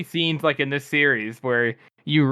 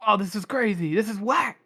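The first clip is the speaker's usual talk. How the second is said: lightly mock amazement; 7 semitones higher than usual. Quoting own first reaction.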